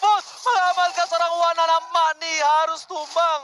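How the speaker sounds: high, slow hyped play call; excited caster call. Real, not acted. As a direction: stretch the call out with hype. Caster calls a kill. (komentator bersemangat)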